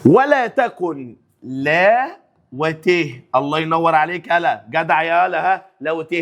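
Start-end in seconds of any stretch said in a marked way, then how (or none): 0.0-3.2 slow drill. Shown as a demonstration. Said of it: "drills the phrase".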